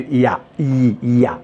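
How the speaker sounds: «ya» et «I» montrés avec un son yod; détacher «ya», «I», «ya» comme des modèles; prononciation en yod. Shown as a demonstration. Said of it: "qu'on la prononce". («I» prononcé comme le y de «ya»)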